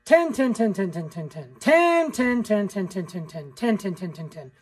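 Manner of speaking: ten, ten said as a run of quacks stepping down in pitch; stair-stepping down. Shown as a demonstration. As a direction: step each ten down, fading at the end. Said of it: "you're kinda stair-stepping them down".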